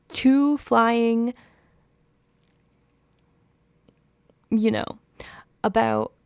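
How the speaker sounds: loud, fed-up scolding; exasperated rant. Real, not acted. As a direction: tell the princess off. Ranting at the character.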